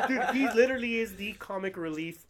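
loud, high, with laughter in it; laughing enthusiasm. Real, not acted. Host praising the show's comic relief to co-hosts, laughing and excited. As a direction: gush through a laugh.

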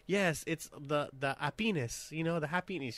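put-on soft French accent; a hint of French accent, softly spoken. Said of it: "French a-, accent".

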